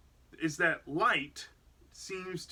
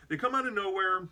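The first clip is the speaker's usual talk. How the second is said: said through a laugh; 4 semitones higher than usual. Real, not acted. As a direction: laugh while repeating it. Repeats line laughing.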